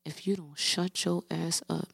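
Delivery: put-on quiet slow don't-test-me threat to a kid; hushed threat. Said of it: "I got close to her and I'm like".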